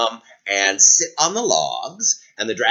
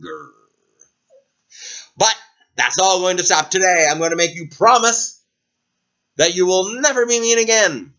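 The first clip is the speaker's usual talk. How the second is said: stern knight; 9 semitones higher, 3 dB louder than usual. Acted. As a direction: lay down the law as a hero. Knight scolds dragon for show.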